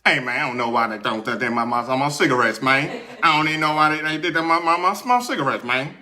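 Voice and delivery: a light take on a fast-mumbling cartoon Texan; retelling the patient's talk as a hint of the cartoon drawler; Boomhauer voice. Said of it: "he started talking like this".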